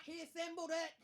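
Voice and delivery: mock-bitter dig at the tiramisu; jealous comic sneering at rival dessert; snide correction. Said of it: "And I'm like".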